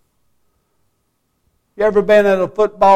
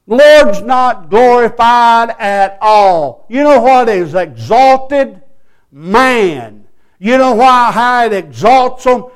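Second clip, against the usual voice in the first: raised pulpit voice, punched key words; forceful preaching; 4 semitones higher, 7 dB louder than usual. Real, not acted. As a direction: denounce it firmly from the pulpit. Preaches indignantly at full voice.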